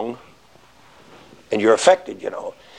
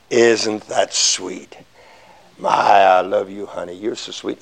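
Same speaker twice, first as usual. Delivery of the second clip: sarcastic sweetness; 5 semitones lower, slower than usual. Retold or imitated. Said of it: "they'll look to you and say".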